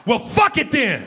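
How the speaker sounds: high, slow exasperated outburst; hammed-up pilot at wit's end; stressed pilot. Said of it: "my pilot come out the cockpit and say".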